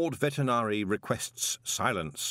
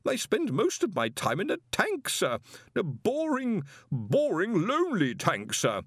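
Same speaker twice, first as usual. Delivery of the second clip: put-on high, anxious young wizard pleading; nervous protest; 8 semitones higher than usual. A narrator's reading. Young wizard protests to the Arch-Chancellor, high and anxious. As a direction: protest timidly to the boss. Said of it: "Collarbone protested".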